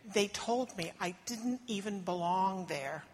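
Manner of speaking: a foreign mother telling her story, anxious; desperate mother. Acted. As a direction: speak as the mother, worn with worry. Monologue as the Canaanite mother.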